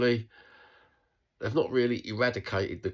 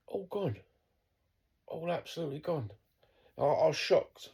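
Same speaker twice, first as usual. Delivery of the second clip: voice breaking with grief; 8 semitones higher than usual. Real, not acted. Man mourning his old neighbourhood, voice cracking with grief. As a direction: let the voice break as it rises and thins. Grieving lost community, voice cracking.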